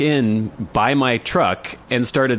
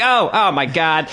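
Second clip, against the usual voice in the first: little Jewish biker voice; 6 semitones higher, slower than usual. Retold or imitated. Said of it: "very good, like, little Jewish biker voice".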